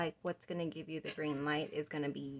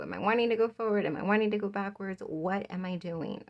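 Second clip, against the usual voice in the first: louder, quick back-and-forth questions slowing at the end; mock dithering, rapid and emphatic, then slowing; indecisive self-questioning; 6 dB louder than usual. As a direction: voice someone torn between two directions, lightly exasperated. Acting out the card figure's indecision.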